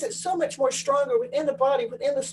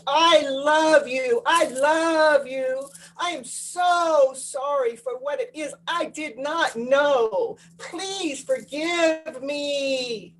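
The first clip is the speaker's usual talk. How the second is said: emphatic heartfelt; much slower than usual. Shown as a demonstration. Speaking to the child within you, slow and emphatic. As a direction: pour energy into every word, very slowly. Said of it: "I'm putting the emphasis and the energy".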